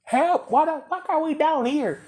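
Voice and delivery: high panicked yells for help, pitch way up; panicked screaming. Retold or imitated. Students stranded below the mountain, high panicked screams. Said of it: "they hear screaming like".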